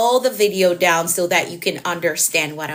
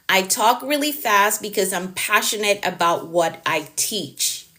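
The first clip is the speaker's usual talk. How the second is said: deliberately slowed. Shown as a demonstration. Slows down for viewer, then repeats.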